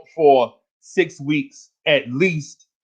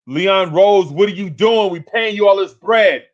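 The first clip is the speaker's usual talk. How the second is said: calling out; 4 semitones higher than usual. Real, not acted. Calling out team president.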